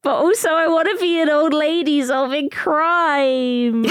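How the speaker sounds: high giddy excited voice; excited squeal. Real, not acted. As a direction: gush it out, thrilled.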